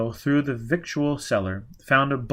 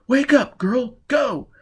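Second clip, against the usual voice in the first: much higher, louder hurry; frantic urging; 13 semitones higher, 6 dB louder, slower than usual. Acted. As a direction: shake her into running. Quat urging escape in raid.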